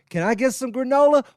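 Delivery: high-pitched mock ordering voice; imagined brunch customer. Brunch customer ordering at counter, high mock voice.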